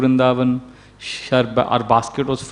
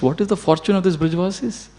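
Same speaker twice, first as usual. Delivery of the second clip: hushed, higher-pitched retold wonder; amazed; 4 semitones higher, 5 dB quieter than usual. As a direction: softly marvel on the demigods' behalf. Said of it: "the demigods are amazed".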